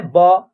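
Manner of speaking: "ब" as a crisp 'buh'; teacher's model "ब", consonant with a short vowel; 'buh' letter sound. Shown as a demonstration. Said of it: "बी का उच्चारण एक ही होता".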